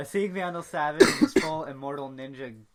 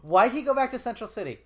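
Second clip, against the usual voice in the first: high, loud disbelieving question; incredulous; 7 semitones higher, 7 dB louder than usual. Real, not acted. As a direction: ask it in disbelief. Confused outburst about plot.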